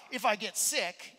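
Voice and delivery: a mock-pleading husband bargaining with his wife; coaxing plea. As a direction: coax her into agreeing, drawing it out. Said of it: "I said".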